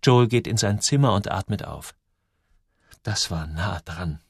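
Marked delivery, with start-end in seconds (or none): 3.0-4.2 leise, tief und langsam gedacht; in Gedanken. A narrator's reading. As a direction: sprich es gedämpft zu dir selbst. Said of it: "denkt er". (leiser innerer Monolog, langsam)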